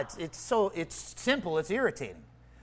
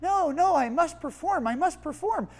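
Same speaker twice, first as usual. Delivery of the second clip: higher, hammed-up self who must perform; mock the striving self, higher and a bit fast; a self-mocking, higher voice of his inner performer; mock anxious self; 10 semitones higher than usual. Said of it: "And I'm sitting there thinking".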